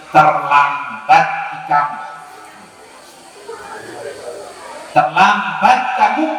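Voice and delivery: low, slow, grave "Terlambat kamu"; solemn grief. Retold or imitated. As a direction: break it gently, in slow sorrow. Ali gives sad news.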